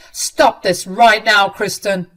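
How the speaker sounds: slow, loud, firm order; husband ordering his sister to stop, slow and loud; stern command. Acted. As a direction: lay down the line, each word weighed. Husband confronts cruel sister-in-law.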